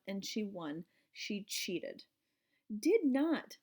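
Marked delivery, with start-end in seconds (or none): 2.8-3.6 loud high denial; shouted denial. Acted. Heidi shouting back at Gail, denying. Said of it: "Heidi shouted".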